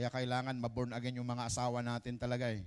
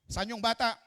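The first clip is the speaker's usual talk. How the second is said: king's command; 6 semitones higher, 6 dB louder than usual. Acted. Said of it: "sabi niya".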